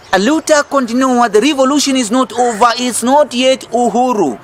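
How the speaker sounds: rally the crowd with it; proud revolutionary call; rallying cry. Real, not acted.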